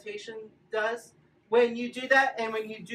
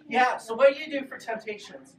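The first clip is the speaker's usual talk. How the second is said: ordinary delivery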